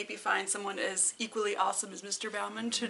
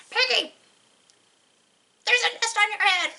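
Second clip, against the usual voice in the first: higher, quick mock alarm; playful story voice; 9 semitones higher, 5 dB louder, faster than usual. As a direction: toss off a quick pretend line. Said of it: "So then you could do".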